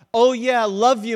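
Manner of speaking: loud, offhand "oh yeah, love you"; breezy casual goodbye. Pretend. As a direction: toss it off like a quick goodbye. Mock casual church goodbye.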